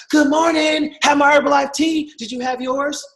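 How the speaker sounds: very high, sing-song fake cheer; chirpy morning post. Cheerful distributor posting to grumpy friends, sing-song fake cheer. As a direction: overdo the sunny brightness.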